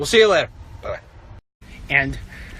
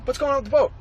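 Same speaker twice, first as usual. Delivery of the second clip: higher, irritated question; annoyed demand; 10 semitones higher, faster than usual. Retold or imitated. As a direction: demand an answer, clearly not cool. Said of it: "I'm not being cool about it".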